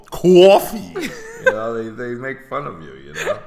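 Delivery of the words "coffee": Coffee said high with a laugh, mimicking the accent; laughing imitation of Coffee; mocking coffee. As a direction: tease the way they say Coffee. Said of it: "You say co".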